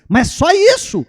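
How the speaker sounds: high, loud disbelieving question; can't believe that's all; mãe incrédula. Retold or imitated. Mãe decepcionada. (mãe incrédula, voz bem aguda)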